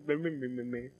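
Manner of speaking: taunting meh meh; mocking bleat.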